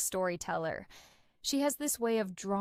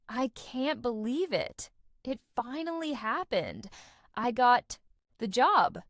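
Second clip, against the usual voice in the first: excited news. Retold or imitated. Retold call to mom, job news.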